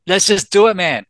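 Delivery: exasperated mock shout at the surgeon; impatient outburst. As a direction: cut the surgeon off, fed up with the talk of risks.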